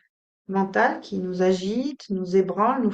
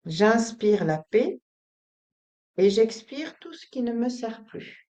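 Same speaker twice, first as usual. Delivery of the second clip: measured affirmation with a pause midway; breathing affirmation. Shown as a demonstration. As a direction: lead each breath with a steady phrase. Breathing affirmation, first take.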